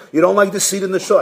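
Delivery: quick, probing question; board questioning. Acted. Board asks the resigning rabbi, quick questioning. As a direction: fire off the next question. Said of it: "So the board calls him in".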